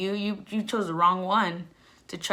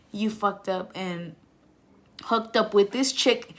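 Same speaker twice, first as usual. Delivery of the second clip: tearful plea. Retold or imitated. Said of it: "like, bawling".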